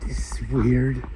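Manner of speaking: breathy hushed whisper to himself; barely voiced, almost to himself. Real, not acted. Whispering alone after crying.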